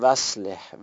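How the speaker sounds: وصلح said joined, hamza of اصلح dropped; wrong linking. Shown as a demonstration. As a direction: run و into اصلح as one word. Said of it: "وصلح غلطه".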